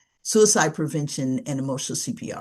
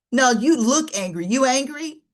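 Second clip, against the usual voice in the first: higher, pushy questioning; acted accusing persistence; insistent prodding; 6 semitones higher than usual. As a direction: keep pressing despite their denial.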